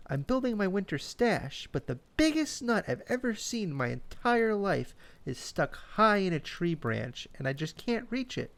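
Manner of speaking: squeaky, high little chipmunk. A narrator's reading. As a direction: pitch way up like a tiny chipmunk. Chip voiced in story.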